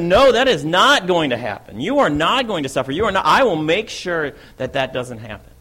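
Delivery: acted outcry, short of a real scream; retold scream. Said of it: "I say and I scream out".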